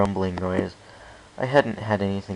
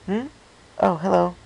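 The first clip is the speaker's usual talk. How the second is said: a lightly voiced mare, higher and louder; distracted mare; 11 semitones higher, 5 dB louder than usual. Local mare answering a stranger while distracted, lightly voiced. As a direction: answer absently, mind elsewhere.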